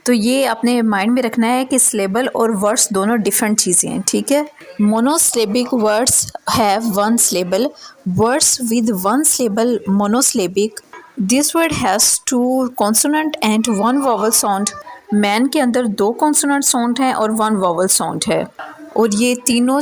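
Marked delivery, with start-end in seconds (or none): 4.8-14.7 slow definition reading. Acted. Teacher reading the English definition to students, slow and deliberate. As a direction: read each English word slowly and evenly.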